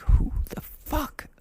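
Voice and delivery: baffled. Retold or imitated. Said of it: "I scroll through my contacts and I'm like".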